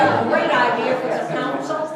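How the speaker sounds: proposing lunch to the council with real laughter; laughing. Real, not acted. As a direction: laugh as you pitch the idea.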